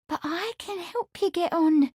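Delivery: high pleading maid's voice. A narrator's reading. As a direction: beg him eagerly. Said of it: "Amelia cried, pleading".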